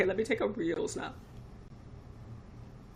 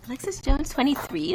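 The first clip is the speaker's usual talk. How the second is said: happy; 7 semitones higher, 4 dB louder than usual. Real, not acted. Writing name on snap.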